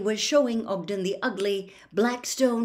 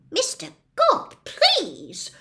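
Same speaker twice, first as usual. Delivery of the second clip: shocked plea, pitched much higher; 13 semitones higher, 7 dB louder, slower than usual. A narrator's reading. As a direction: gasp it out, appalled. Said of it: "said Ogden in a shocked voice".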